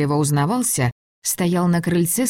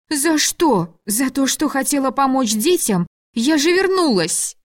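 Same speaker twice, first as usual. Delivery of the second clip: indignant cry; 8 semitones higher than usual. A narrator's reading. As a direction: cry out against the injustice, near tears. Tearful outburst at unfair reproach.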